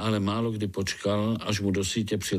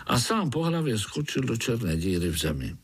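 usual speaking voice

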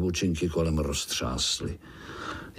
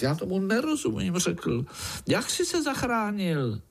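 put-on much higher, quick child voice; impatient little spider; 13 semitones higher than usual. Impatient Pája demands how uncle escaped, high quick child voice. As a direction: press uncle for the answer.

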